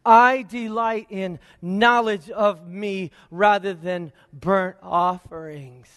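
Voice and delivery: lightly voiced divine declaration; slow, weighty scripture quote as God; God speaking. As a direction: declare it slowly, with a touch of God's authority. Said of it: "this is God talking".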